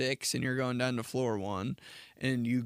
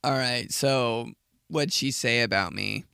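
gossip voice. Retold or imitated. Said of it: "that's what I say".

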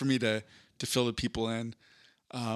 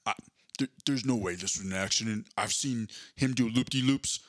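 Vin Diesel. Retold or imitated. Host retells the plot, mock Vin Diesel voice. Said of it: "But he's like".

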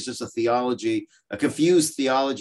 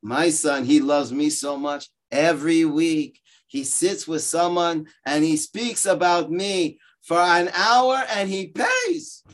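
a hint of a one-upping Jewish mother, rising higher; rival Yiddish mama; 4 semitones higher than usual. Second mother outbragging the first about her son. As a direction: top the other mother, slowing for the punchline. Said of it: "The other one says".

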